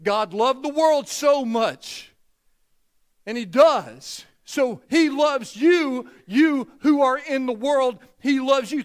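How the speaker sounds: loud, high and slow, every word punched; fervent preaching. Real, not acted. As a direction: proclaim it with full force. Preaching climax on God's love.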